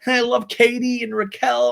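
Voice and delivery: high, drawn-out imitation weeping; mock crying. Recapper imitating Ariana crying to Lisa, mock wailing. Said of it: "And she's crying".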